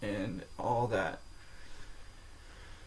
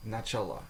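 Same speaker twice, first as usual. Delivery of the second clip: Начала, weight on the closing ла; stress on last syllable; 4 dB quieter than usual. Shown as a demonstration. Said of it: "the stress changes according to form".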